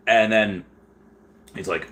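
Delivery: put-on Australian accent. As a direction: narrate in a mock Aussie accent. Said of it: "gonna go back to English now".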